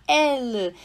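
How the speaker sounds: elle with an open E, ɛl. Shown as a demonstration. Teacher to student: open E as in elle. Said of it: "escrita só dessa forma".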